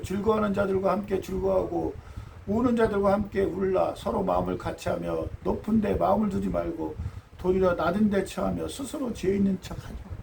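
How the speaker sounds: measured, solemn Bible reading; solemn reading of Romans; scripture reading. Acted. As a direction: read the verse as holy text. Reads scripture aloud.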